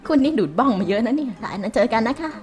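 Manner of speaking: lightly voiced old auntie, polite; a hint of a frail old lady; shaky old voice. Plays old auntie job seeker.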